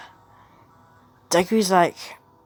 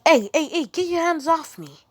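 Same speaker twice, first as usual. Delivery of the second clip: alarmed protest; 9 semitones higher than usual. Acted. Deku grabbed by henchmen.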